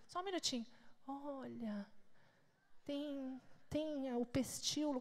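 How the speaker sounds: soft, slow dreamy husband voice; hushed imitation. Wife imitating husband softly naming plant parts. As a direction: murmur like a man lost in a flower.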